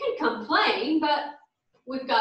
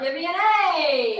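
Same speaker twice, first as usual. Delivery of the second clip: cheer call; 3 semitones higher, 4 dB louder than usual. Acted.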